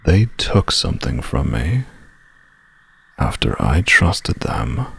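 low, slow villain's grudge; menacing. Acted. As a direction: let the threat sink in slowly. Villain reveals his grudge.

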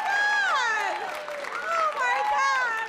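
gushing with delight; excited squeal. Real, not acted. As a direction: burst onstage overjoyed. Comic bursting on stage.

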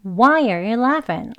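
Why are you laughing stretched out word by word; very slowly. Shown as a demonstration. Teacher drills the learners very slowly. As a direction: take it very slowly, syllable by syllable. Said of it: "한번 더 해볼까요".

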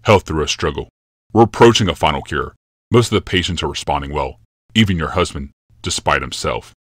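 a hint of a brooding emperor, calm and certain; grave Yalmoth. Yalmoth's lines.

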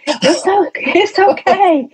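high, gently reassuring retelling; mock soothing "it's all right". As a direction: soothe an angry doctor, lightly imitated. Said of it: "I was trying to calm him down".

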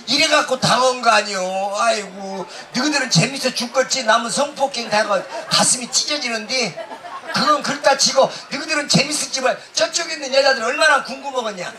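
ordinary talk

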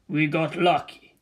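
slow breathy whisper to himself; hushed whisper of relief. Acted. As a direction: murmur it almost to yourself, no voice. Wario repeats line under breath.

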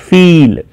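"ફીલ" with a long, weighted "ee"; stress on ફી. Shown as a demonstration. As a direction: lean on the "ફી" in "ફીલ". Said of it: "ધ્યાનથી જોજો".

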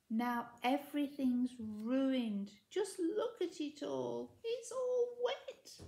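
slow, rising whiny wail; Enid wailing. A narrator's reading. Enid wailing over her soaked luggage, slow and tearful. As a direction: whimper it out like you're about to cry.

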